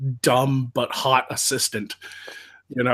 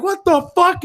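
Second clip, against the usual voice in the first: higher, louder shocked yelp; stunned soldiers, pitched up; shocked cry; 14 semitones higher, 6 dB louder than usual. Retold or imitated. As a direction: react to the explosion in shock. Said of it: "they're like".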